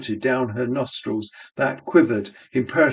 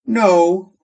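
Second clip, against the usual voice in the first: barmaid voice; 8 semitones higher, 6 dB louder than usual. Acted. Barmaid answers in voice.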